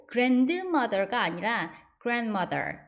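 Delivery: grandmother first with d, then without; wrong then right. Shown as a demonstration. Teacher contrasting two pronunciations. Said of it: "D 발음 안 하고".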